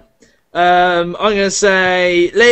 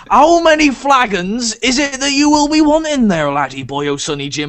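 a hint of a higher folksy tavern keeper; Fable-style barkeep; 3 semitones higher than usual. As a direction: wriggle out of a bad deal like a shifty innkeeper. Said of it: "sounds like he's from Fable".

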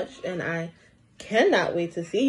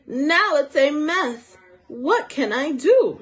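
a touch of frustration, slightly slowed; lightly voiced upset girl over a messy poster; mildly angry; 4 semitones higher than usual. Emma, frustrated over her ruined poster, mildly angry. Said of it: "she asked angrily".

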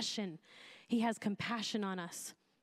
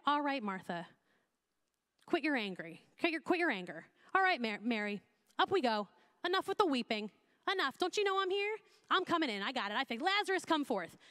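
hammed-up "enough of that" brush-off; mock brisk impatience; 3 semitones higher than usual. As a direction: play at briskly hushing the mourners. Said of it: "He doesn't say".

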